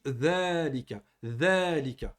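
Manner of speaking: "dhalika" repeated with the first a held long; prolonged dhal vowel. Shown as a demonstration. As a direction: stretch the first a of "dhalika" each time. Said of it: "On met une prolongation". (« dhalika » répété avec le a prolongé)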